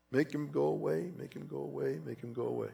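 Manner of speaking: fading plea. Retold or imitated. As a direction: let the begging die away. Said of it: "I begged the Lord".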